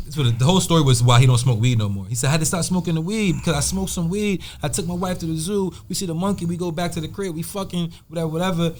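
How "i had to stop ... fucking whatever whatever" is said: Jamaican. Retold or imitated. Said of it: "this Jamaican boy".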